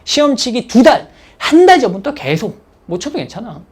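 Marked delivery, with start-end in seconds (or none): 2.9-3.6 soft, gentle reassurance to yourself; calm yourself down quietly; a quiet pep talk to oneself; self-reassurance. Shown as a demonstration. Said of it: "이걸 계속 되뇌어줘야 돼".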